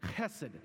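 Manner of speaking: "Chesed" with a throaty scraped ch; Hebrew guttural ch. Shown as a demonstration. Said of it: "guttural sound ... force spit up".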